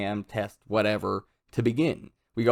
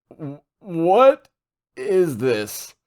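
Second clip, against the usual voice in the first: stammered, high and loud panic; terrified stammer; 7 semitones higher, 6 dB louder, much slower than usual. Retold or imitated. Reno stunned as the giant head drops, panicked stammer. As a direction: gasp it out in shock. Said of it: "Reno is about to shit himself".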